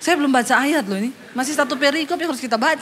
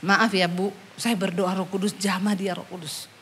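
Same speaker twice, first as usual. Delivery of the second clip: soft prayer; 8 semitones lower, 6 dB quieter than usual. Retold or imitated. Pastor prays over woman softly.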